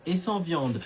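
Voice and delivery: slow, word by word: sans sauce et sans viande; fussy customer repeating the order to the waiter; slow insistence. Acted. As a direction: spell the order out patiently. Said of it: "ce n'est pas ce que j'ai dit".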